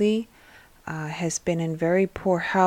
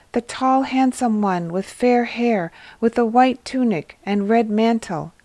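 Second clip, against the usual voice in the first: eager description; 3 semitones higher than usual. Acted. Elias describing Jesus eagerly.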